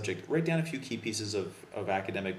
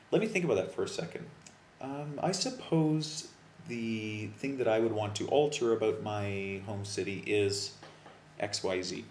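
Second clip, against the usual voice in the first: model exam answer. Shown as a demonstration. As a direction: act out a natural test answer. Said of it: "I don't want to say to my examiner".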